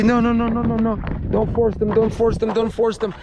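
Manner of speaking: mock frantic mom begging don't force them; mocking his ex pleading for the kids; mother flipping out. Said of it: "the mommy flips".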